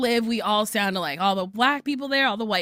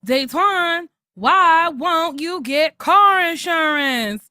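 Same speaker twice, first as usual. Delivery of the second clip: radio ad voice; 4 semitones higher, 3 dB louder, slower than usual. Retold or imitated. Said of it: "a commercial on the radio where it's like".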